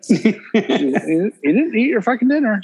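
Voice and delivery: amused, drawn-out telling-off; laughing mock scolding. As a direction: scold in jest while cracking up. Dad's mock reply to child, laughing.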